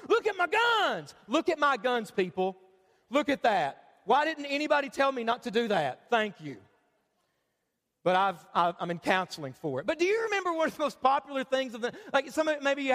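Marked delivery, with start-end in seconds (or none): 0.1-6.6 1 mock show-off. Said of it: "We all thought".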